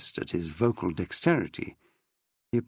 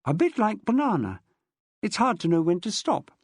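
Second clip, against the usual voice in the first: lightly voiced, a bit higher through foam; mouth full of toothpaste; 5 semitones higher than usual. Mum in the bathroom, through toothpaste foam. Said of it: "through a mouthful of toothpaste foam".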